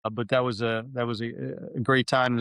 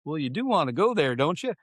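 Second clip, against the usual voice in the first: a light, higher-pitched, teasing impression of the commandant; imitating the commandant; 4 semitones higher than usual. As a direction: play the boss gently teasing. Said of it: "he goes".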